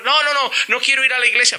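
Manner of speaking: put-on a child refusing to go to church with dad; whining child. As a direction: whine that you won't go.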